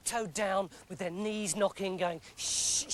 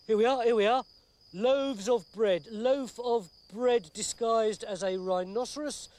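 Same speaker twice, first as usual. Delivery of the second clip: eager reading; 4 dB louder than usual. Acted. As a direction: read out each entry triumphantly. Reading dream book aloud.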